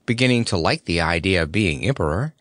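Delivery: ordinary delivery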